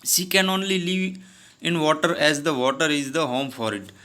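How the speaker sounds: slow, clear read-aloud of the story dialogue. Acted. Teacher reading the story's English lines to her class, slow and deliberate. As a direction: read each English word slowly for the class.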